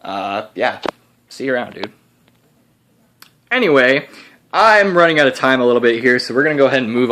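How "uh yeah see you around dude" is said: put-on Texas accent. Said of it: "I got a Texas accent because I'm his alter ego".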